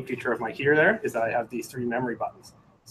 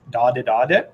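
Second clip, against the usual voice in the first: imitated morse; 5 dB louder than usual. Shown as a demonstration. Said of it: "like, a C".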